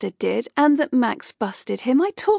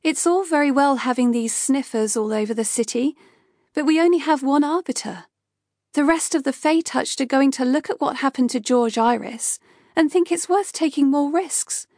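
higher, heated scolding that climbs; Kay berating her boss for never being there; angry rant; 5 semitones higher than usual. Acted. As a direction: lay into him, building to the last line.

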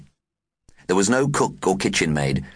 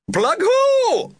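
slow, high, loud shriek from upstairs; imperious plummy grande dame; 5 dB louder, slower than usual. A narrator's reading. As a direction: scream the name like a grand lady. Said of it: "screamed a voice from upstairs".

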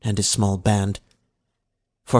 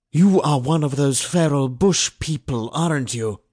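suspicious overseer; 5 semitones higher than usual. A narrator's reading. Overseer confronts the feral slave.

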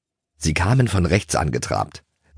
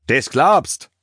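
high, louder exclamation; eager shouted reply; 7 semitones higher, 5 dB louder than usual. A narrator's reading. Toni answers Schoko before galloping, eager shout. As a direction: shout back, game for mischief. Pony yells back while charging.

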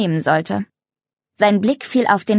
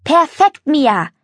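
bright enthusiastic shout, higher and louder; excited call; 7 semitones higher, 4 dB louder, slower than usual. A narrator's reading. Mario cheers Mia's perfect jump, excitedly calling out. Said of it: "rief Mario begeistert".

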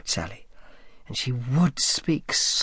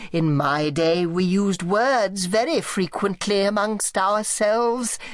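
whining, creaking aunt; 11 semitones higher than usual. Acted. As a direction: creak it out like a frail old tyrant. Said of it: "Her voice whined and creaked".

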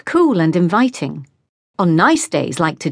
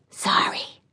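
a soundless mouthed "Sorry"; just shape the word, barely any breath; mouthed silently; 8 dB quieter than usual. Acted. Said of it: "Lexi mouthed".

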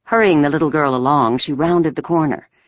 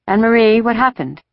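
high-pitched, worried questioning; anxious mother; 8 semitones higher, 3 dB louder than usual. A narrator's reading. Mother questioning daughter about soldiers, anxious. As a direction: press for answers with a touch of alarm. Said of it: "her mother asked anxiously".

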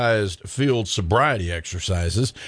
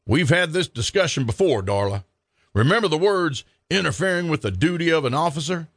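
firm; 4 semitones higher than usual. Acted. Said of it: "firmly said".

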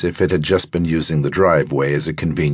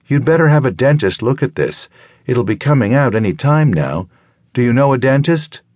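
higher, brisk doctor's voice, kindly but firm; concerned doctor; 7 semitones higher than usual. Acted. Doctor Emily telling her patient about the loose tooth, brisk and caring. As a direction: talk her through it like a practical country doctor.

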